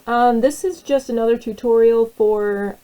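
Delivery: talking through hiccups; words broken by hiccups. Real, not acted. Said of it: "Sorry, I have the hiccups right now".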